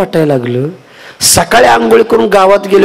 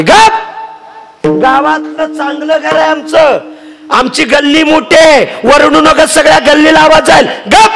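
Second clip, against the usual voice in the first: scolding mother-in-law; 11 semitones higher than usual. Acted. Mother-in-law hushes wife.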